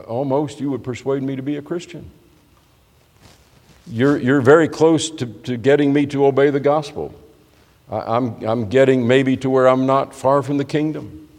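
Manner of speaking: tentative, rising inflection; half-persuaded, wistfully wondering aloud. Acted. Agrippa admitting he is very close to obeying the gospel, wistful. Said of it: "saying maybe almost wistfully".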